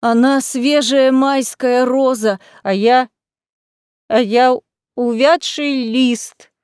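slow, drawn-out bitter lament; sarcastic self-pity. A narrator's reading. Drunk lady comparing herself to a young rival. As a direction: drag out the pity with a sour sting. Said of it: "язвительно воскликнула администраторша".

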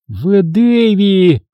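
high, drawn-out sharp call of his name; lightly voiced sharp matron. A narrator's reading. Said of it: "Голос Обин звучал высоко и резко".

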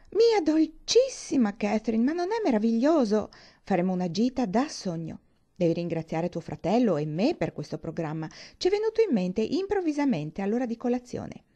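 lightly voiced gushing young lady, lilting; gushing friend. Isabella coaxing her friend into an outing, gushing.

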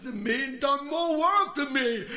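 high, loud, hammed-up crybaby wail; mock the jealous amateurs with a blubbering shriek; mock whiny musician. Ranting vlogger mocks jealous musicians, high mock sobbing wail.

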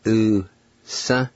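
"oo-sa" said as two separate syllables; "oo-sa" carefully split in two; Cherokee pronunciation demo. Shown as a demonstration. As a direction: sound out "oo-sa" slowly for learners. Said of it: "First part is pronounced".

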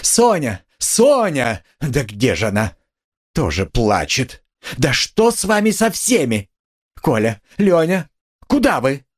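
high, frantic calling; frightened cry. A narrator's reading. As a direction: call out for the children in fear. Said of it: "вскрикнула она вдруг в испуге".

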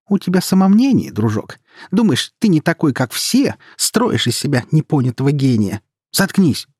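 loud, high scornful rant; heated, derisive scolding; quarrelling sister. A narrator's reading. Siblings' shouted quarrel continues.

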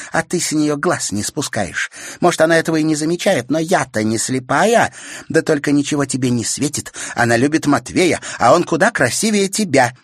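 sting him; spiteful teasing. A narrator's reading. Sister spitefully teasing brother.

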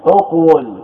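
اقول as uq-wul, opening on short u; initial u vowel. Shown as a demonstration. Teacher explaining the hamza's vowel, uq-wul shown. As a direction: start اقول with u, then a sounded w. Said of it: "بضم الهمزة لأن العين مضمومة".

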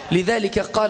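usual speaking voice

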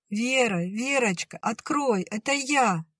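put-on high little girl's voice calling; little sister calls her sister to open up; young girl calling. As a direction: call through the door, high and young.

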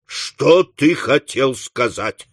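slow, heavy question at normal pitch; deliberate, insistent questioning; stern demand. Acted. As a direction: space the words out, shaking it from him. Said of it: "встряхнув его".

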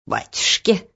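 a touched, startled grandmother gasp; touched and flustered. Acted. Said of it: "растроганно и немного растерянно сказала бабушка".

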